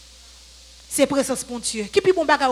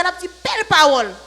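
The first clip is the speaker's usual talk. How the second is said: higher, louder imitation of praise; mock admiration; 3 semitones higher, 6 dB louder than usual. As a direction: gush in imitation of an impressed listener. Mimics people praising fine words. (admirasyon pou fè imitasyon, ak vwa pi wo)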